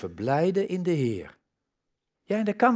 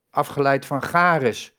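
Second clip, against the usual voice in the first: ordinary talk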